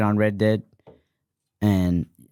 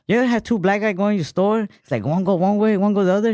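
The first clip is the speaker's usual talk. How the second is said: put-on high, louder Asian accent bit; Asian accent impression; 11 semitones higher, 4 dB louder than usual. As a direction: tell it like a stand-up joke in the accent. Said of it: "He's like".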